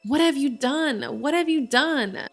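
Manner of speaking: a hammed-up yell at his daughter; mock scream. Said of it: "the dad is screaming at her".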